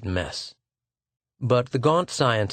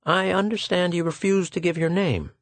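kindly, high-pitched gentle probing; lifted, coaxing kindliness; 9 semitones higher than usual. A narrator's reading. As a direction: put it kindly to a patient. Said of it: "said Schecht kindly".

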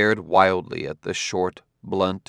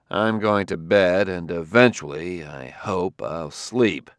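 joyless. Acted. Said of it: "none in his voice".

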